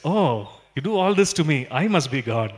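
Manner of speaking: lightly voiced smug cat, full of itself. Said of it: "The cat looks and says".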